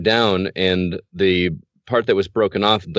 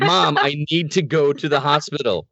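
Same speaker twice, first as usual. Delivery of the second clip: pitched up, pushing the plea harder; urgent plea; 5 semitones higher than usual. Retold or imitated. Kid showing mom his bloody leg, urgent plea. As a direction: make her finally listen. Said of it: "threw up my leg into the sink ... and said".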